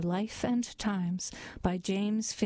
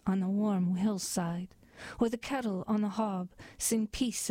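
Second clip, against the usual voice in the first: measured, lilting poetry reading; poem recital. A narrator's reading. A reader reciting Yeats's poem to listeners, lilting and measured. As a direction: read it like a ballad of the fairies.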